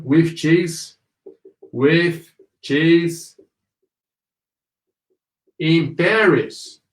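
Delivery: separated words with long pauses; slow model reading. Shown as a demonstration. Teacher feeding learners the line, slow and separated. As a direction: give each word room to be repeated.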